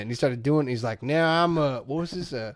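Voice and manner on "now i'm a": imitated Southern accent; mock Southern accent. Actor showing the director his new Southern accent. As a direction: put on a bad Southern accent. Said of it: "I came up with this accent".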